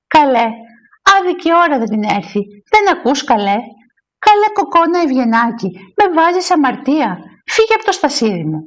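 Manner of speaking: mildly indignant, pitch swooping down at phrase ends; quarrelsome scolding. Acted. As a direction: nag her to get out of your seat. Women quarrel over a church stall.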